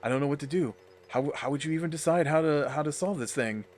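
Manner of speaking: lightly acted flustered inner voice; a touch of hammed-up dithering; mild mock panic. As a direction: play at being at a loss, slightly quickened. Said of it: "they'll switch to in his head, and he'll be like".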